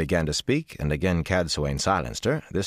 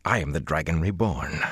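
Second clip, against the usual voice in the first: firm. Acted. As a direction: assert your rank. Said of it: "Rand said firmly".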